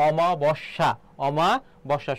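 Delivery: অমাবস্যা said with opening "o", not "aa"; correct pronunciation. Shown as a demonstration. Teacher gives students the right word, অমাবস্যা pronounced with initial "o". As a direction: sound out অমাবস্যা, starting on a clear "o". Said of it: "সেটা হবে অমা হবে".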